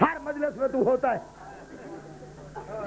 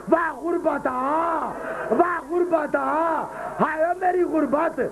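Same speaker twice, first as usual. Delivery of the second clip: anguished wail; 3 semitones higher, slower than usual. Acted. Voicing Hussain's cry when struck.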